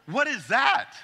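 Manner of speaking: sudden loud high yelp of shock; startled shout. Retold or imitated. Patient startled by eye test puff, shouting. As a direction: cry out like air just hit your eye.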